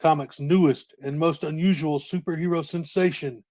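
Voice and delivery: dramatic movie trailer announcer; serious announcer voice. Acted. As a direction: boom out the hype like a promo. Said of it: "Get that serious announcer voice going".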